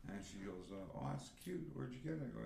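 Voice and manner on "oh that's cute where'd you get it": higher-pitched imitation of a girl; girl's voice. Man retelling a girl admiring his tattoo, higher girlish voice. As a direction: lift the voice into a mock girl's coo.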